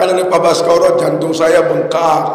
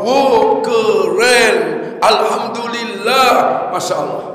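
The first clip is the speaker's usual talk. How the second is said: lightly drawn-out admiring exclamation; a touch of slow, savoured praise; Ustadz Nasrullah; slower than usual. Acted. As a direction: stretch each word in mild wonder. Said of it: "Kalau bahasanya Ustadz Nasrullah".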